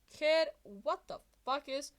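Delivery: lightly voiced dazed hero; half-awake hero demanding answers; groggy confusion. Mike waking up confused.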